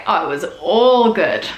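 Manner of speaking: Kiwi phrasing. Shown as a demonstration. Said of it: "a particular way that Kiwis can say it".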